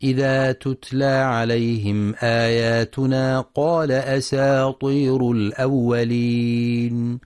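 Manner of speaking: slow, melodic tajweed chant; Quran recitation. Shown as a demonstration. Teacher recites the verse for students, slow tajweed chant. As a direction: recite the verse slowly with long held vowels. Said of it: "وفي قوله جل في علاه".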